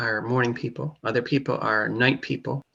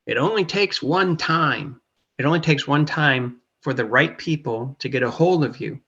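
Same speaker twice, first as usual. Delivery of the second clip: put-on Texan accent. Quoting a friend's advice to a newcomer, light Texan accent. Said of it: "he said in a Texan accent".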